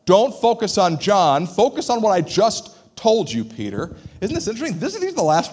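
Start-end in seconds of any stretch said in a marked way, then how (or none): 0.0-4.0 firm, louder rebuke; stern telling-off. Retold or imitated. Jesus telling Peter off, stern. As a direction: tell him off, slowly. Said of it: "He's telling him off".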